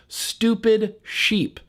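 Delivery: outraged sneer. Acted. Outraged repeat of the insult.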